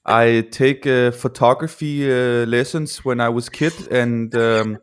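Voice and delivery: light Danish-English accent, slow in places; a hammed-up Danish Denglish accent. Shown as a demonstration. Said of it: "I'm gonna answer these questions in a Denglish accent".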